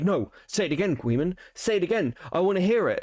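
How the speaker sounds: mock someone demanding a repeat; insistent mock demand. Streamer imitating Duma to his face, mock insistent. Mocking Duma's stubborn demand for repetition.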